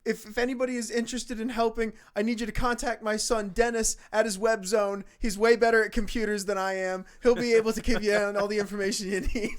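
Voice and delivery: high, loud mock old man; a hammed-up JonTron pleading for help; JonTron bit. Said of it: "he's like".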